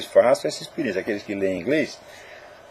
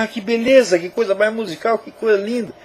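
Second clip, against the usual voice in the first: imitated admiring reader; 7 semitones higher than usual. Voices an admiring naive reader.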